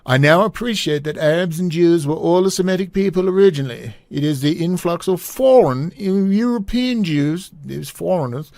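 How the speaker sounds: Prince Charles. Acted. Host reading the prince's letter on the Middle East, hammy Prince Charles voice. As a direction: read out the letter in a badly faked British voice. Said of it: "Prince Charles voice".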